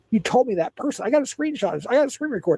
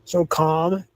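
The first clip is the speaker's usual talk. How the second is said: slow calm down; much slower than usual. Real, not acted. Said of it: "don't get so riled up".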